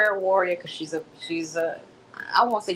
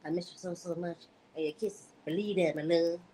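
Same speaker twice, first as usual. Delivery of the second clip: much softer, hushed read of the lover's text; Ernest's voice redone; 8 dB quieter than usual. Acted. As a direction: redo it softly in the man's voice, lightly voiced. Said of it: "Let me redo that".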